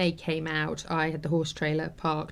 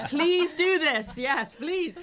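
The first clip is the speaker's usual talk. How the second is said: much higher, slow, laughing through the words; tearful laughing plea; 10 semitones higher, 6 dB louder, much slower than usual. Retold or imitated. The teacher begging for horses, laughing through tears.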